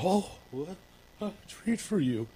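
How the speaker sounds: high, soft sing-song coaxing; coaxing dog owner. Retold or imitated. Owner luring a naughty dog with a treat, high and sing-song. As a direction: sweet-talk the dog to lure it. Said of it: "and be like".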